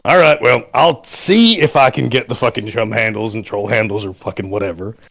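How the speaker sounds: lightly voiced gruff old soldier; a hint of a grizzled veteran. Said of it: "gruff, like, fucking old soldier voice".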